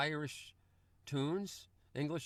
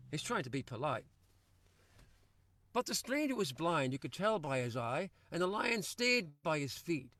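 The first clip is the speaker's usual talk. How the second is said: lilting spoken-word storytelling; poem recitation. Acted. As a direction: tell it like a yarn in a pub. Recites his own rhyming poem.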